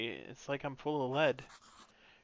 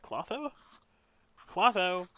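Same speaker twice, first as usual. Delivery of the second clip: calling out; 5 semitones higher, 5 dB louder, slower than usual. Acted. Calling out to dazed witch.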